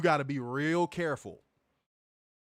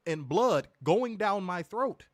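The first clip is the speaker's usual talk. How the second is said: panicked plea; 5 semitones higher, 3 dB louder, slower than usual. Retold or imitated. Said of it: "I'm like".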